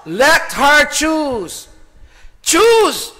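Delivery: loud, high, drawn-out preaching cry; impassioned shout. Acted. Preacher throws the slogan at the congregation, impassioned shout. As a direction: shout it slowly, pitch climbing high.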